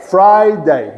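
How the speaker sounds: Friday in two distinct beats, FRI-DAY; two-syllable Friday. Shown as a demonstration. Teacher showing Charles two syllables, measured Friday demo. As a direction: give both syllables of Friday full weight. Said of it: "Duas sílabas".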